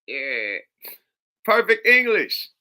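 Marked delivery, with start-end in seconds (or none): 1.4-2.5 surprised. Real, not acted. Amazed reaction.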